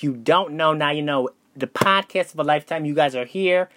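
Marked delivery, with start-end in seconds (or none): 1.5-3.7 out of breath. Real, not acted. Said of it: "Wow, I'm out of breath".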